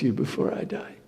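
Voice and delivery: whispered, dying away; an old man trailing off about his death; soft whispered ending; old Isaac fading. Acted. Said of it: "He said".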